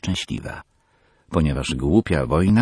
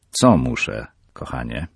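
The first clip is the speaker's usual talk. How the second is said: indulgent father; 4 semitones lower than usual. Acted. Father asks Peggy gently what she needs. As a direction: humour your daughter.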